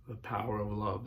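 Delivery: quiet refrain. Real, not acted. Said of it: "repeated refrain".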